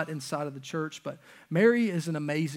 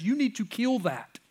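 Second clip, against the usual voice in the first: firm command; 7 semitones higher than usual. Pretend. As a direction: hammer it home: kill it. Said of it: "He says".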